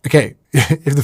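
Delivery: chuckling through the line; amused, laughing it off; laughing at the accidental innuendo. Real, not acted. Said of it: "there's some fun here".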